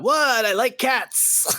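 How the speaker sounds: slow, booming voice of God. Retold or imitated. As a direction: imitate a slow godlike voice. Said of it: "you sound like God, man".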